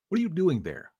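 put-on a stranger challenging a boy found on his land; demanding. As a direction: call out and insist on an answer. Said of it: "he demanded".

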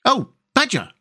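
high-pitched pleading cry. A narrator's reading. Rat calling to Badger at the door, crying out. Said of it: "cried the rat".

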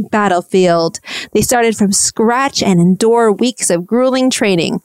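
dramatic voiceover. Retold or imitated. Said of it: "you hear Tom saying as they show these clips".

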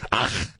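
guttural ach; mock movie-German throat noise. Mocking movie Germans with a guttural ach. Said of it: "that German noise".

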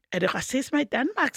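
a hint of feigned ignorance; clueless questioner. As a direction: ask it as if totally oblivious. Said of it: "Jeg elsker den der stemme, du bruger".

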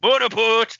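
high, loud gleeful shout; joking yell. Acted. Podcaster shouting a joke at his co-host, gleeful and loud. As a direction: yell it like a punchline.

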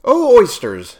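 high, loud call to the oysters; calling carpenter. A narrator's reading. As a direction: hail them as the carpenter. Carpenter calls to eaten oysters.

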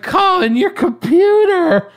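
high, slow call from far away; coworkers calling out. Retold or imitated. Coworkers calling Colin back to his computer. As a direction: shout across the warehouse. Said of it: "And they're like".

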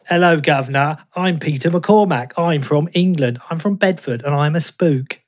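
mock standard British accent, slowed; hammed-up British accent; Peter McCormack parody. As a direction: send up a bad British impression. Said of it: "impression of you doing an impression of me".

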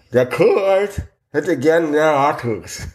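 slow words around a mouth guard; mouthpiece speech. Acted. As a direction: force it out past a mouthpiece. Reading a card through mouthpiece.

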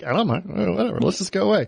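mock carefree. Breezy character, higher pitch.

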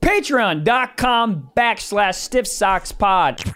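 spelled out slowly like an ad; slow podcast plug; slow ad read. Acted. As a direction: read the link slowly and clearly. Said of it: "reading out the Patreon link".

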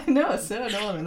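a light, self-admittedly bad northern English accent. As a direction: try a northern English accent and don't quite land it. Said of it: "That's a terrible northern accent, but I'm going with it".

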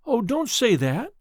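mild protest. Acted. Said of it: "protested the girl".

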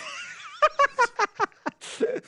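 high-pitched burst of laughter; long high laugh. Real, not acted. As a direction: crack up laughing at the co-host's remark. Co-host quips about losing respect.

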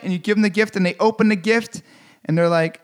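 ordinary delivery

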